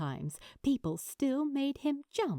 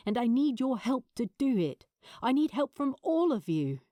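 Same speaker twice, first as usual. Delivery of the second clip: urgent plea; 3 semitones higher, faster than usual. Acted. Adam to his friends, an urgent building plea. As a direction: push them to help, building urgency.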